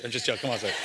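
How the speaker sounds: laughing off the joke; sheepish laugh after a jab at the church. Real, not acted. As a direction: chuckle through the apology. Joking laugh.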